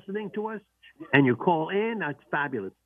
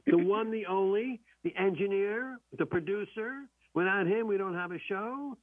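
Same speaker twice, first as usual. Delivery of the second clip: announcer intro; 3 semitones higher than usual. Acted. Announcing the producer.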